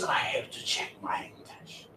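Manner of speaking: a hushed, breathy whisper to oneself. Retold or imitated. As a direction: murmur it as if asking only yourself. Inner self-questioning, whispered aside.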